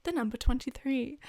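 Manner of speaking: put-on loud British-accented bingo caller, exploding on quack; blasting loud quack. Podcaster reenacting the woman who quacked right in the microphone, very loud. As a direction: boom it into the mic with a startling QUACK. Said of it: "she quacked so fucking loud".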